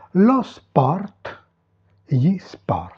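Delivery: "sport" with its final T clearly sounded; final T pronounced. Shown as a demonstration. Teacher warning students about the final letter, final T pronounced. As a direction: release the T at the end of "sport". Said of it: "On prononce ici le T final".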